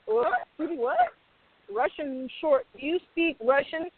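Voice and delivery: high, incredulous mock questions; imitating a baffled exec, pitched high; mock surprised exec. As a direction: act out a startled executive. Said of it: "they're like".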